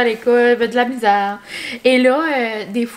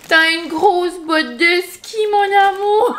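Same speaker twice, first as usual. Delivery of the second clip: high, rising to a shout; excitedly telling the puppy; excited to dog; 6 semitones higher than usual. Real, not acted.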